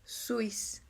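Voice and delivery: "Suis" as a single syllable, swis; merged syllable. Shown as a demonstration. Teacher demonstrating the reduction, "Suis" fused into one syllable. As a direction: glide the u into the i in "Suis". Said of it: "en una sola".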